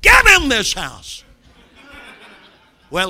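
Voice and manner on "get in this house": loud and much higher parent's bellow; ironic sweet yell. Retold or imitated. Parent calling son in from the window, yelling loud and high. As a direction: blast it out the window at the boy. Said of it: "very sweetly you say".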